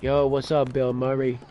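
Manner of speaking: a light hint of a Wu-Tang rapper greeting; casual rapper hail, lightly done; Wu-Tang rapper style. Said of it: "like this rapper from Wu-Tang".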